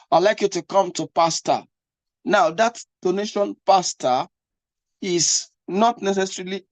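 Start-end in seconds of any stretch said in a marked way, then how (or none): 1.1-1.6 pastor in a Ghanaian accent, ending on an open "ah". Shown as a demonstration. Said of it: "If someone comes from Ghana". 3.0-4.3 pastor in a Ghanaian accent, ending "-ah"; Ghanaian-style open final vowel on pastor. Shown as a demonstration. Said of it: "is not the Ghana way of calling".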